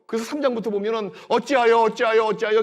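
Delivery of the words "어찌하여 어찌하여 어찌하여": louder, higher bitter lament; anguished cry. Acted. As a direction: cry out at heaven in grief. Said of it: "아주 원통하게 이를 데 없어요".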